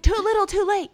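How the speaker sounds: high, loud mocking singsong voice; mock sarcastic quote. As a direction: toss it off like a snide parody. Mocking the neighbor's belated warning.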